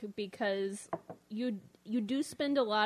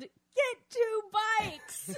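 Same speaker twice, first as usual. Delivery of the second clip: very high-pitched, taunting, jeering yell; 12 semitones higher, 4 dB louder than usual. Telling Tess what her brother yelled at their tandem bike, retelling a yell. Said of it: "And he yelled".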